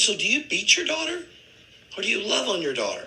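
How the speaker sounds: high, pressing either-or question. Retold or imitated. Coworker challenging a father, high and pressing.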